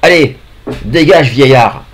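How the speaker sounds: gruff guard. Acted. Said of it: "qui dit".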